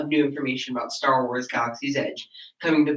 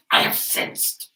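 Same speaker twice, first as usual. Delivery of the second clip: hoarse whispered villain; Emperor voice; slower than usual. Pretend. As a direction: rasp it like the Emperor. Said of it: "like the Emperor".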